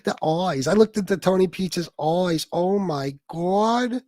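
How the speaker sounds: mock New York accent, drawn-out vowels; exaggerated New York vowels, stretching "God"; mocked talker's accent. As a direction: imitate his thick New York "eyes" as "oys". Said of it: "That's how he talks".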